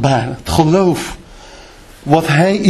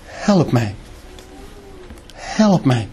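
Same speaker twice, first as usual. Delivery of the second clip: softer, lower whispered-away plea; quiet plea; 5 semitones lower, 7 dB quieter, slower than usual. Retold or imitated. Man praying to his Father, quiet plea. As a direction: beg it under your breath. Retold prayer pleading with Father.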